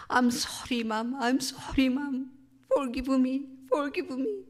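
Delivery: high, breath-starved sobbing plea, re-enacted; imitated gasping wail. Son begging his mother's forgiveness, imitated breathless wailing. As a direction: act out crying almost to fainting, gasping between pleas. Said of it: "목소리가 너무 크고 왜 울다 보면 이렇게 숨이 가빠서".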